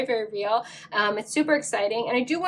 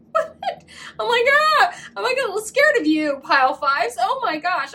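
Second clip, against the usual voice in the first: mock scared; 10 semitones higher, 5 dB louder than usual. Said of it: "I'm not actually".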